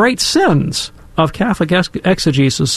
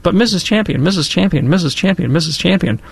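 put-on eager child pleading; 3 semitones higher than usual. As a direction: insistently call for the teacher's attention. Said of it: "throw my hand up and I said".

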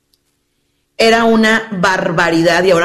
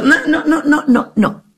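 laughing refusal, higher; 7 semitones higher than usual. Real, not acted. Rejecting the excuse with a laugh.

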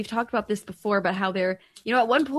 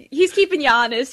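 bright, louder playful tease; teasing, louder; 6 dB louder than usual. Real, not acted. Host teasing the priest about his accent, louder. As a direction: jab at him playfully, out loud.

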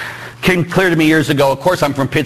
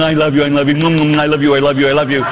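effusive Italian; faster than usual. Retold or imitated. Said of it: "we're Italian".

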